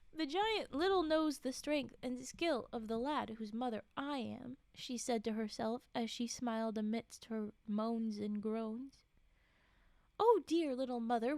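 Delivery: steady read-aloud storytelling voice; measured storybook reading; story narration. A narrator's reading. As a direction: read the tale to a listener.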